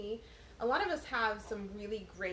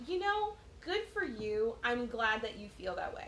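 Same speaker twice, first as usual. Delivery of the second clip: a touch of sarcastic approval; mock gracious. Mother answering her unbothered daughter, mock gracious. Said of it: "And I was like".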